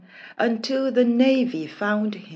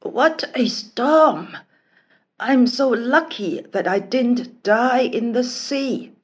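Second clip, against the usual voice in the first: relieved prince; 3 semitones higher, 4 dB louder than usual. Acted. Prince relieved after shipwreck.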